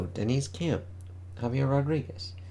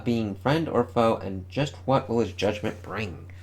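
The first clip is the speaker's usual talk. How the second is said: announcer read. Acted. Reads comic solicitation text.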